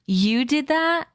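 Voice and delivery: high, slow, astonished; disbelieving gasp of a question; surprised. A narrator's reading. Horace amazed at the explosion.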